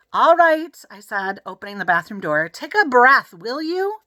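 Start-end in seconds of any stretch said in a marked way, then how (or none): 0.1-0.8 exasperated. A narrator's reading. Hank yielding. 2.5-4.0 exasperated. A narrator's reading. Hank exasperated.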